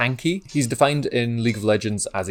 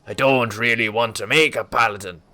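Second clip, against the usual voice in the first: Irish-tinged pirate voice; 4 dB louder than usual. Pretend. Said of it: "I'm Irish now".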